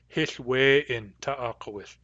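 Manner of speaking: Hith we in ta'akowith, said slowly; Nuu-chah-nulth phrase. Shown as a demonstration. Teacher reporting Hith we in ta'akowith as hearsay. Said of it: "To me, it's hearsay".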